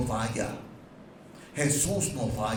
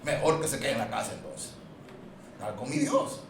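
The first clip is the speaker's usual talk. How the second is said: calm voice of God. Acted. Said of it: "Dios dice".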